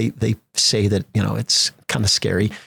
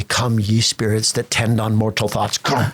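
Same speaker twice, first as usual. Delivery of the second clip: dramatic recitation; slower than usual. Shown as a demonstration. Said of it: "But when I say".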